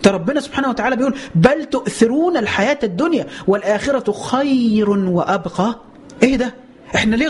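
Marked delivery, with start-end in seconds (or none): 1.3-5.8 slow chanted recitation of the verse; measured Quranic chant. Acted. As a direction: intone it like tajweed. Quran recitation inside sermon.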